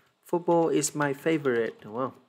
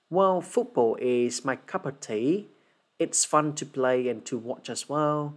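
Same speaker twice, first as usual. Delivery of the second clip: measured, steady English exam answer; slow, flowing spoken demonstration; fluent model answer; slower than usual. Shown as a demonstration. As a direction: deliver it slowly and smoothly for students to copy. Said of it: "sự trôi chảy của thầy này".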